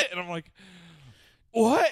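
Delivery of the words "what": loud, high rising holler; acted yell in answer; called-back reply. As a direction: shout back across the woods. Calling back to his dad.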